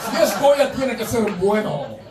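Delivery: Spanish slogan. Retold or imitated. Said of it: "They should have called it Goya".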